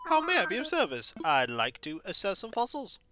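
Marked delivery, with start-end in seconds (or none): 0.1-1.1 higher, polite museum host; curator owl. Acted. Museum owl welcoming Sandstar, lightly raised polite voice. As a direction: greet the visitor like a prim curator.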